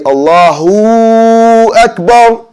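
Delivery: Allahu Akbar with a long mad on hu, pitched high; wrong added mad. Shown as a demonstration. Teacher demonstrates the wrong mad to students, pitched high. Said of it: "This would also be wrong".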